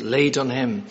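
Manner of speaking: "laid on him" with firm stress on "laid"; emphatic quotation. Shown as a demonstration. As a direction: lean on the word "laid" in "laid on him". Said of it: "the emphasis on that phrase".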